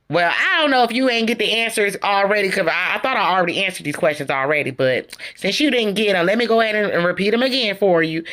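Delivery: lightly imitated condescending tone. Retelling Melody offering to repeat her answers, condescending. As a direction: explain it as if she failed to get it. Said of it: "speaking in a condescending tone".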